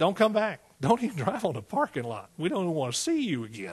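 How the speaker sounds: normal talking voice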